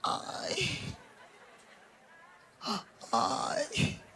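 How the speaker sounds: breathless whispered sighs of self-pity; two weak, breathy ais; pained sigh. Retold or imitated. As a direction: sigh it out like a martyr wanting attention. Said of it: "ela fala".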